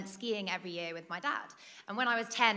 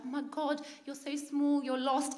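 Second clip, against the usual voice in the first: higher-pitched cooing, slowing to the punchline; mock gushing pity; 5 semitones higher than usual. Checkout lady to lost British child, mock gushing pity. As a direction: imitate a stranger fussing over a tiny child.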